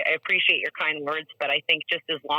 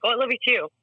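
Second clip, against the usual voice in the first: rushed automatic sign-off, pitched up; quick, offhand reply; 7 semitones higher, faster than usual. Shown as a demonstration. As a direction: toss off "I love you too" quickly, higher. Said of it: "just say it really quickly back".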